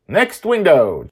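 put-on high, slow child command; eager girl. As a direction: push on to the next window. Joy pressing on.

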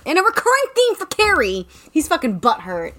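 high singsong announcement; teasing high singsong; mock announcement. Real, not acted. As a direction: pitch it way up like a running-gag jingle. Mock announcing a running gag.

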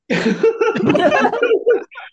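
a sudden real laugh, high; burst of laughter. Real, not acted. Storyteller laughing at his own surprise reveal.

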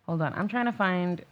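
rough, hungover voice. Real, not acted. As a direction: talk like you're badly hungover. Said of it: "I sound so hungover".

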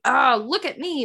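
lightly mocked attention-seeking; mild showing off. Shown as a demonstration. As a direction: play a mild show-off. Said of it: "Not like".

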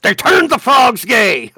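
high, slow, loud conspiracy shout; hammed-up ranting mouse, half laughing; Alex Jones. Conspiracy mouse talking to all the other mice, mock ranting shout. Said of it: "the Alex Jones of the mouse world".

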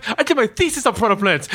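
lightly voiced eager goddess; warm serene goddess voice. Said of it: "She goes".

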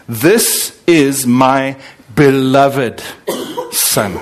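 a father speaking with deep love, slowly; tender voice of God. Retold or imitated. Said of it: "and a voice says".

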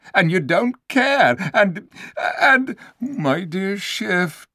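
the sly ape Shift guilt-tripping the donkey; wheedling ape voice. Acted. The ape Shift sulking and scolding.

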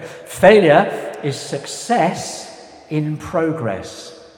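slow put-on German accent. Shown as a demonstration. Preacher quoting Einstein to the congregation, German accent. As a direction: quote Einstein in a deliberate German accent, drawn out. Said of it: "I will say it in a German accent".

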